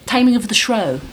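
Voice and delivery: "Shrew" said to rhyme with "show"; alternative pronunciation. Shown as a demonstration. Joking about Shrewsbury with Shakespeare, "Shrew" said as "shrow". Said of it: "that's like the Shrewsbury and Shrewsbury".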